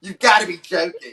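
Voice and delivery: playful imitation of disbelief; disbelieving. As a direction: quote her shocked reaction. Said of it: "You're like".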